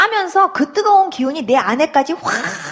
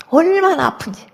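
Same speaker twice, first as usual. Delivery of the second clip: ordinary delivery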